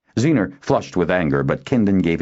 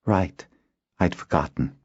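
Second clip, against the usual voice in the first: subdued, mildly deflated admission; a touch of dejection; crestfallen; 2 semitones higher than usual. A narrator's reading. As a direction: admit it with a sinking voice.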